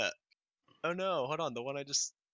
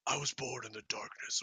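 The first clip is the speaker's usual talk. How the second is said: Bane voice; 7 dB quieter than usual. Acted. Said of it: "can you use a Bane voice".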